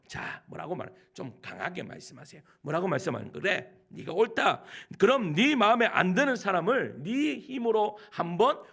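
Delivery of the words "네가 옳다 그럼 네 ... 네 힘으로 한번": louder, slowing on the commands, a stern divine challenge; God daring Job, forceful and deliberate; strong voice of God. Acted. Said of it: "그렇게 강하게 이야기해요". (하나님의 강하고 엄한 목소리)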